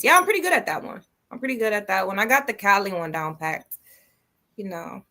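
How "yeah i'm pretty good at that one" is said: put-on English accent. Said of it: "that was a good English accent".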